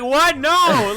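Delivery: very high, loud what no; loud high disbelieving no; incredulous shout. Retold or imitated. Refusing friend's request.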